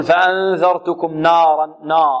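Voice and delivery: نارا with the nun made heavy and thick, slowed; wrong heavy nun. Shown as a demonstration. Teacher showing students the wrong heavy reading. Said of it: "البعض يفخم يقول".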